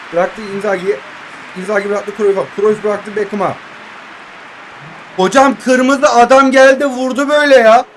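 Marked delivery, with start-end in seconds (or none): 5.2-7.9 indignant complaint. Real, not acted. Complaining about a hard foul.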